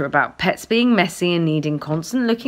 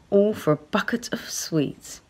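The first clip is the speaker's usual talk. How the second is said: whisper; 5 dB quieter than usual. A narrator's reading. Quiet aside in inner monologue.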